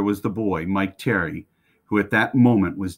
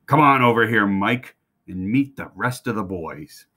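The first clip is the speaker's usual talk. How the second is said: shouted. Acted.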